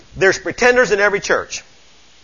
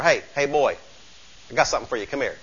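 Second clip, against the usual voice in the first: put-on softly coaxing a reluctant boy; a quiet, low-key beckoning; 4 semitones lower, 6 dB quieter, faster than usual. God taps him, coaxing quietly.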